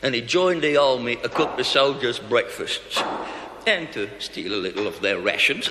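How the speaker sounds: dying cook whispering his story; weak and fading. Acted. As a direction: tell it with the last of his breath.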